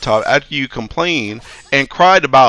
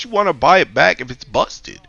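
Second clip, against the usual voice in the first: much higher; incredulous; 7 semitones higher than usual. Real, not acted. IT guy ranting at a coworker, incredulous and much higher. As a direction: squeak the obvious at them.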